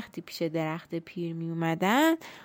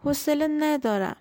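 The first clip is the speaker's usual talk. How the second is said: put-on cranky old tree, pitched higher, shushing; trembling old tree; 7 semitones higher than usual. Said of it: "با صدای لرزانی".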